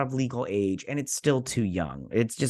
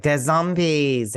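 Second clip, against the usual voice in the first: mock alarm; 3 semitones higher, 4 dB louder, slower than usual. Woman warning the team of zombies, mock alarm. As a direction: call it out like a hammy warning. Acted cry of alarm in retelling.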